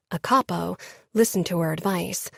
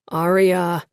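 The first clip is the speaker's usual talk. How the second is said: strained; 5 dB louder than usual. A narrator's reading. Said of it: "Lucas said in a strained voice".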